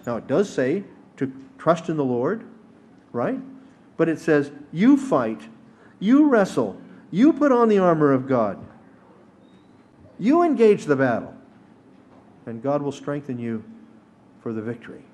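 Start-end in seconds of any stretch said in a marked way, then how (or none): 4.7-11.3 loud, high-pitched, punched phrases with pauses between; rousing battle charge. Acted. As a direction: exhort the congregation forcefully, phrase by phrase.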